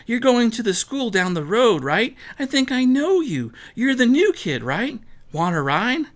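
high, eager greeting; bright friendly girl. Acted. Girl offering the new kid a ride, high and eager. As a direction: greet her eagerly, pitched well up.

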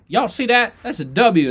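imitated hype-up. Player trying to get his team fired up, imitated high hype. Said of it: "trying to get his team fired up".

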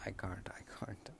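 soft unvoiced whisper. Real, not acted. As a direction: give up in a whisper. Giving up, sleepy.

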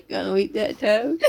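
slow Southern drawl; American Southern accent. Acted. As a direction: drag it out in mock Southern American. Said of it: "American Southern accent".

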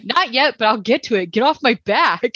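half-shouted retort, ending in a laugh; Kevin's mock yell. Retelling Kevin's comeback to Sue, mock yell. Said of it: "Kevin yells back at her".

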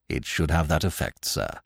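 low, soft, unruffled assent; quiet, even servant's voice; imperturbable valet. Acted. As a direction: deferential and pitched right down. Valet answers his master.

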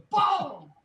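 very high, loud boom; triumphant shout. Retold or imitated. Telling off the producer who fired him, high triumphant shout. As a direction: slam it down like a mic drop. Retold parting shot to producer.

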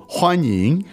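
欢迎 said slowly, each syllable drawn out; slow correction. Shown as a demonstration. Teacher correcting student's welcome, slow clear 欢迎.

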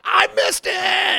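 mock wail. To the hostess about missing the fall, slow high wail. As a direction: drag it out like a child who missed the show. Telling hostess she missed it.

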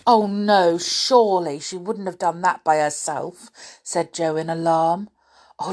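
lively storybook reading with voices; reading to children. Acted. Reading The Folk of the Faraway Tree to children, lively. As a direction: read it like bedtime story time.

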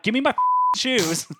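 mimicking his girlfriend through a laugh; laughing mimic. Retelling the shoe fight, laughing high mimicry of her. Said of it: "She's like".

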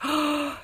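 a quick, shocked intake of breath; sharp gasp. Retold or imitated. Seeing the sick child's story, a shocked gasp. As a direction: gasp as if the ad hit her. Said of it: "I was like".

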